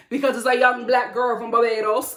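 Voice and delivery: lightly put-on accent, Sutton-like. Speaker voicing what Sutton gives her, put-on accent. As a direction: slip into a mock accent for Sutton. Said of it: "I don't know why I did that accent".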